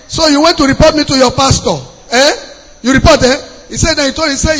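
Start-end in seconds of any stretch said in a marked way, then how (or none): 0.1-3.4 confronting. Retold or imitated. Angry landlord confronts tenant.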